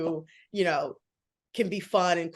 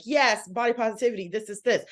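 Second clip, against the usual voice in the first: raised, higher-pitched mock rally cry; mock screaming; 4 semitones higher than usual. Acting out herself rallying a room for body positivity, mock screaming. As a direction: imitate shouting a slogan without really screaming. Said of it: "if I'm in a room screaming".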